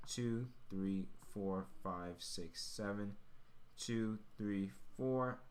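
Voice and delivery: usual speaking voice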